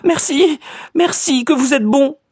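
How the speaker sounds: cried out thanks. A narrator's reading. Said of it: "Elle s'écria".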